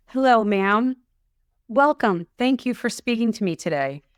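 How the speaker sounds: a hint of a scripted telemarketer greeting; salesperson voice. Mocking a sales caller trying to sound natural, scripted and polite. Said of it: "anybody trying to sell you anything".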